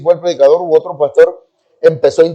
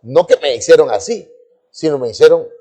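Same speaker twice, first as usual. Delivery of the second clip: ordinary talk, nothing marked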